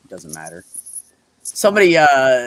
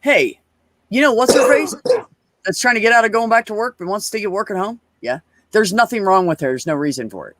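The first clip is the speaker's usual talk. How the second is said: higher-pitched imitated complaint; retold boss griping; 5 semitones higher than usual. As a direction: gripe like a fed-up boss, retold. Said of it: "she was like".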